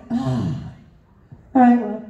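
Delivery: mumbling under a heavy sigh, mildly imitated; mumbled director impression. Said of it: "and he mumbles".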